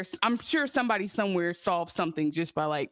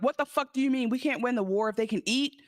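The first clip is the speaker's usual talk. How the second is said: higher-pitched heated mock outrage; retold seething; 7 semitones higher than usual. Podcaster retelling a furious leader's objection, seething. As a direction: imitate a man indignantly challenging his ally. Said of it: "he is seething".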